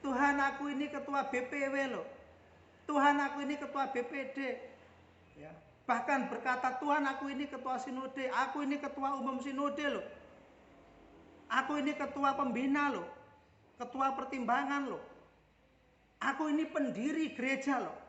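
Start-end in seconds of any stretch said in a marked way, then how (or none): 0.0-4.4 higher, louder, rushing boast of titles; fast, shouted list of credentials; outraged church official yelling; indignant yelling. Retold or imitated. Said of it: "berteriak-teriak seperti itu". 6.8-18.0 higher, louder boast of church titles; offended leader yelling his rank; indignant yelling. Retold or imitated. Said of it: "Kita akan berteriak-teriak".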